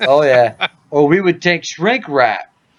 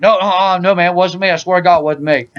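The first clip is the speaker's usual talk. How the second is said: mock denial; 4 semitones higher than usual. Acts out sleeper's hasty denial.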